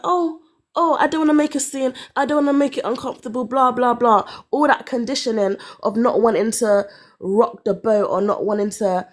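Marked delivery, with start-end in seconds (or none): 0.0-4.2 mock meek self. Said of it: "I was like".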